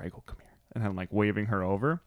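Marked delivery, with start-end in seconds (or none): 0.2-0.5 hushed, whispered summons; retold whisper. Parent retelling how they beckoned the daughter over, whispering. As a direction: whisper it as if coaxing a child over. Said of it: "and then I whisper".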